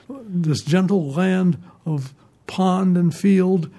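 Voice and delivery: reciting a remembered line slowly, savouring it; slow poetic recital. Retold or imitated. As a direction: slowly savour each word of the phrase. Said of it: "I always remember that phrase".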